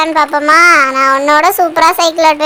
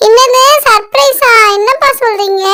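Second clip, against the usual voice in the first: surprised; 4 semitones higher than usual. Acted. Child hears father has a surprise, high surprised question.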